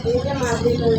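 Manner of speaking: tearful protest. Real, not acted. Devotee protests to goddess.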